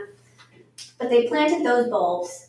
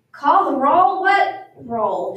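raised, questioning, then dropping back; puzzled; 3 semitones higher, 6 dB louder, much slower than usual. A narrator's reading. New teacher puzzled by the list, asking in confusion. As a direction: question it as if baffled. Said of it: "She looked puzzled".

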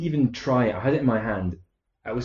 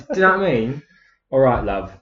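Essex accent; 3 dB louder than usual. Shown as a demonstration. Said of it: "I'm gonna say it in an Essex accent".

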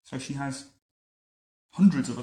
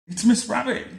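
Miss Rabbit voice; 10 semitones higher, 6 dB louder than usual. A narrator's reading. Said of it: "said Miss Rabbit".

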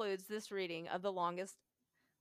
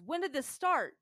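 higher and louder, suddenly eager; excited; 6 semitones higher, 6 dB louder than usual. Retold or imitated. The utilities man grilling the student, excited and higher. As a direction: jump on the clue with eagerness. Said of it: "Speaking to me again excitedly".

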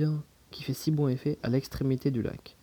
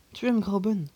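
loud, higher, menacing question; murderous tone; 5 semitones higher, 5 dB louder than usual. A narrator's reading. The uncle corners his nephew over Grauben, menacing. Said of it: "d'un véritable ton de tueur".

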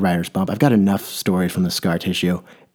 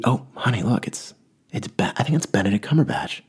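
excited hushed aside; 3 semitones higher, 3 dB quieter than usual. Retold or imitated. Parents spot celebrity in restaurant.

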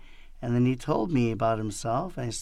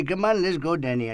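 comic put-on Indian accent; mock Indian accent, dropping away at the end; 3 semitones higher than usual. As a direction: play it as an Indian-accented complaint. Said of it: "Or the Indian guy".

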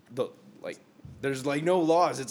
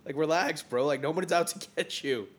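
pleading to relax; 8 semitones higher, 6 dB louder than usual. Retold or imitated. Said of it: "I'm like".

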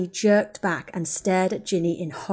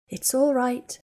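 reassuring; 5 semitones higher, slower than usual. Acted. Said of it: "Hermione kept saying".

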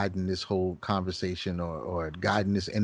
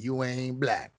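slow, drawn-out mock twang; Joe Biden; slower than usual. Co-host mimics the candidate's response, slow twang. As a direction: put a twang on it, stretching the words. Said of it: "He put some twang on it too".

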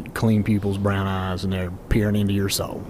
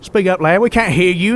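stern demand; 10 semitones higher, 5 dB louder than usual. Acted. Stranger demands captive speak up.

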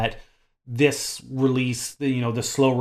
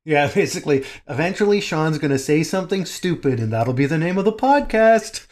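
laughing; 5 semitones higher, 5 dB louder than usual. Real, not acted. Teasing about Sean, laughing.

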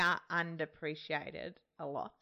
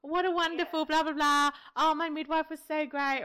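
mock praise; 7 semitones higher than usual. Mums praising their midwife.

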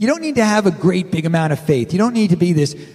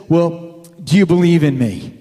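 God's voice; 4 dB louder than usual. Retold or imitated. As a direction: ask it like God testing him. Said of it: "the voice says".

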